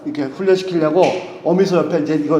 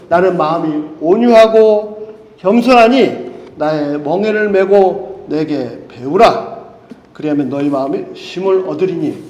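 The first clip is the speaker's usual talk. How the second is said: slow, measured verse reading; solemn scripture reading; 2 semitones lower, 3 dB louder, slower than usual. Acted. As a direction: read the verse slowly, word by word. Reads Bible verse slowly.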